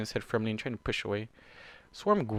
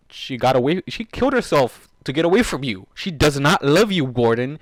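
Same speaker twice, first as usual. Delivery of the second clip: loud insisting; 2 semitones higher, 9 dB louder than usual. Real, not acted. Insisting loudly to character.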